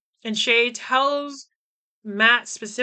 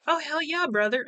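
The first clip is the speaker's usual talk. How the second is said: mock excited bro; 5 semitones higher than usual. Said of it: "he's very excited".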